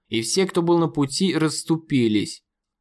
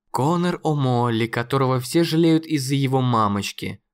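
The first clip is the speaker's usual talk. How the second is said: venomous. Acted. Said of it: "в голосе его зазвучали ядовитые нотки".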